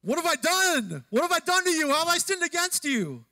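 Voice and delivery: high, loud outburst of indignation; fired-up Jacob. Acted. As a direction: shout it as the wronged, furious Jacob. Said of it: "do it like you were Jacob".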